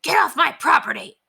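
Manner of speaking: high-pitched bossy dog voice; Ranger. A narrator's reading. Dalmatian orders Ribsy off his territory, high and bossy. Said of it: "Ranger told Ribsy".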